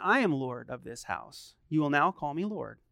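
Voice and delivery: low, soft, self-important dad; mock-solemn decree, kept low; mock lordly. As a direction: pronounce it like a household monarch, in jest. Dad jokingly lording it over kids.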